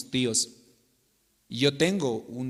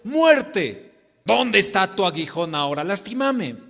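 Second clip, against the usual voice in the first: defiant taunt; 4 semitones higher, 4 dB louder than usual. Acted. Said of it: "podremos decirle a la muerte".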